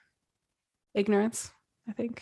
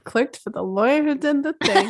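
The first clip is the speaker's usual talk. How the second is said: laughing; 6 semitones higher than usual. Retold or imitated. Echoing headline laughing.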